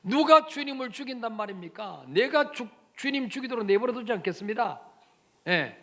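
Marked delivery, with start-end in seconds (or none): 2.1-4.8 vehement protest. Acted. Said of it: "막 항변했어요".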